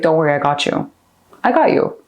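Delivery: put-on calm the frightened child in the backseat; reassuring a scared kid. Talking a scared younger self down, soothingly. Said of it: "to make a kid feel calm".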